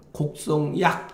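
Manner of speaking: 곡성약 as one group, stopping after 약; 약 joined to 곡성. Shown as a demonstration. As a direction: attach 약 to 곡성. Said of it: "이렇게 읽는 게".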